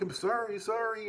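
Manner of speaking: high-pitched, repeated apology; pleading apology. Retold or imitated. Retold hasty apology to angry girl.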